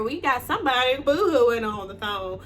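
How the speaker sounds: mock a crier with relish; imitated taunting drill sergeant. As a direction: put on a jeering sergeant voice. Mimics taunting female drill sergeant.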